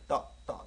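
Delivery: 떠 with a hard, tense initial tt; short separate 떠 bursts, strongly tensed; strong tense consonant. Shown as a demonstration. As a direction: hit the first sound of 떠 hard and short. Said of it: "떠 발음이 더 강해요".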